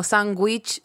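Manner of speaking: sandwich said "SAN-gwich", G replacing D; sandwich as "sanguich". Shown as a demonstration. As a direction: use a GW sound in sandwich. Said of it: "me gusta la mezcla".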